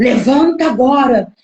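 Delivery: put-on commanding, booming shout like thunder. Recounting a voice that woke her, the speaker repeats its command: retelling a thundering shout. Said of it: "bradando com uma voz de trovão muito forte".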